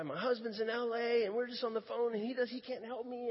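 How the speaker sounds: lightly acted weepy explanation; imitating crying. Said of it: "she's just, she's just crying".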